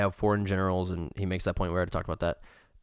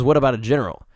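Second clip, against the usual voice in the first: louder, higher general-style call; a touch of a rousing general; mock rousing call; 3 semitones higher, 6 dB louder, faster than usual. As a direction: call it out like rallying troops. Socrates voiced, louder.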